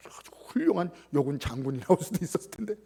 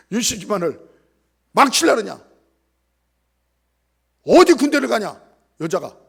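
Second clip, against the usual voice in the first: angry uncle; 3 semitones higher, 12 dB louder than usual. Retold or imitated. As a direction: rage at the girl for shaming the family. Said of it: "이렇게 얘기를 했어요".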